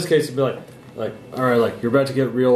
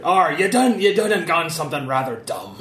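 muse voice; 4 semitones higher than usual. Acted. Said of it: "I guess my muse is saying".

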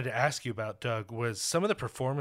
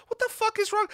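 exasperated outburst. Real, not acted. Ranting to Doug about the FBI, in real exasperated disbelief. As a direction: pitch leaps way up in disbelief.

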